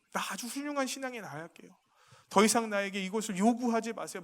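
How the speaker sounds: aggrieved prayer. Retold or imitated. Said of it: "제 속에 있는 마음 그대로 말씀드릴게요".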